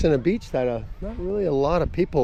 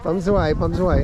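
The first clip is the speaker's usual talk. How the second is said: laughing while repeating her call; laughing imitation; 5 semitones higher, 4 dB louder, much faster than usual. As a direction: echo the vendor, laughing. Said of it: "copies vendor's phrase".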